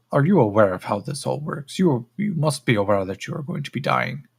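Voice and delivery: deliberate, probing alien examiner; condescending creature. Acted. Creature probes captive about his fate, condescending creature voice. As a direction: question the captive with cool superiority.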